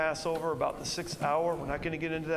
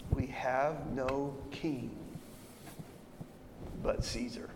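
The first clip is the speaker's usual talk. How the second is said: cold reply; 3 semitones lower, 6 dB quieter, slower than usual. Acted. Chief priests answer Pilate.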